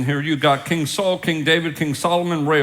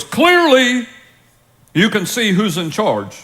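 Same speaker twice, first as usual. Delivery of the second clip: triumphant gloat; 5 semitones higher than usual. Retold or imitated. Elijah gloats after fire falls.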